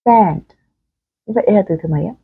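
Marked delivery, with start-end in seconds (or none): 0.1-0.4 a quick relaxed e in SEND, no nasal twang; âm e bình thường. Shown as a demonstration. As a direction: SEND with a short, plain e. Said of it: "Đáp án chính xác là đáp án thứ nhất". (SEND đọc âm e bình thường)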